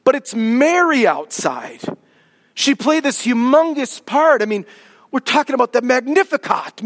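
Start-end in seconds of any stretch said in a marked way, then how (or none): 0.0-4.4 1 imagined objector. Retold or imitated. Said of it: "You would think".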